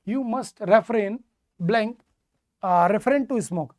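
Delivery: very slow, word by word; slow dictation. Shown as a demonstration. Teacher slowly repeating the sentence for students. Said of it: "मेरे बच्चे क्या कहोगे?".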